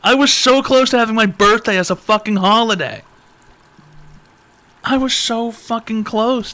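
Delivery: comic whining lament; mock anguish. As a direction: drag it out high in fake despair. Lamenting the missed birthday holiday.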